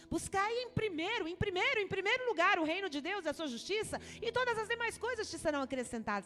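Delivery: preaching at full force. Acted. Pastor preaching to the church, fast and loud. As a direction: preach it out, rising and pressing on.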